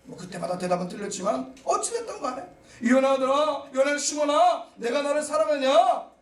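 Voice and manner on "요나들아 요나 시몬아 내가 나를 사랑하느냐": Jesus calling Peter. Acted. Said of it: "이렇게 물으시면서".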